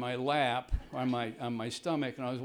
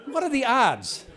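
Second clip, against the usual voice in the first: laughing disbelief; 8 semitones higher, 6 dB louder than usual. Real, not acted. Incredulous laughing repeat.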